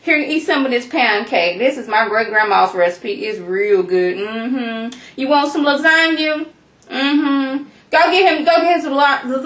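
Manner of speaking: lightly voiced fussing grandma; doting grandma. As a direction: coax someone to eat like an insistent grandma. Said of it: "like they was somebody's grandma".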